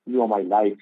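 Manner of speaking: mock-coax a husband with sweet names; loving endearments. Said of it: "call him by lovely names".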